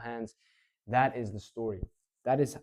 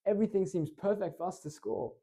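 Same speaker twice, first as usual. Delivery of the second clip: much higher, excited call; high energy; 8 semitones higher, 4 dB louder than usual. Shown as a demonstration. Fan watching the corner kick, high excited voice. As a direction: peak hype, voice soaring. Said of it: "So I'm just very high energy".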